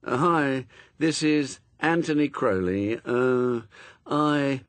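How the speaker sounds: very laid-back answering machine drawl; Anthony Crowley. A narrator's reading. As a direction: take your time, utterly relaxed. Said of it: "a voice which sounded so laid back".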